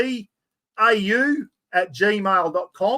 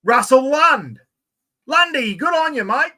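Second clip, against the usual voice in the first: excited; 8 semitones higher, 5 dB louder than usual. Real, not acted. Announcing the draw winner.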